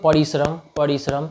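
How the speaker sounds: परिश्रम with a quick short रि; short easy परिश्रम. Shown as a demonstration. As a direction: say परिश्रम lightly, no stretch on रि. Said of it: "अब नाम से ही पता".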